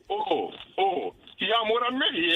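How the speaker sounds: whiny mock sobbing; fake-cry it like a wounded man. Mocking the upset boyfriend.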